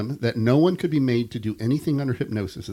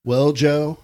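put-on Southern accent; 6 semitones higher, 8 dB louder than usual. A narrator's reading. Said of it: "they even think in that accent".

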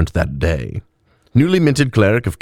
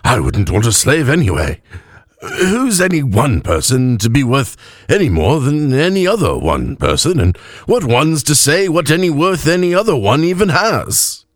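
higher, swooping tipsy ramble; drunk elf; 6 semitones higher than usual. A narrator's reading. Drunk cleric philosophizing to his companion, swooping tipsy ramble. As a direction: ramble woozily through the tangled question.

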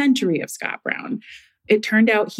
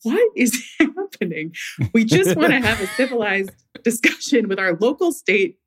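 laughing mock outrage; 2 semitones higher than usual. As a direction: mimic the students, laughing through it. Imitating puzzled students, laughing.

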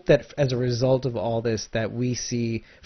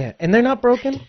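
emphatic; 10 semitones higher, 4 dB louder than usual. Real, not acted. Emphatic reassurance.

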